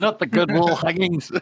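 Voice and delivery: high, hammed-up fretting; mock distress. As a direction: play along as the fussy scold. Joins in mimicking Orso's yell.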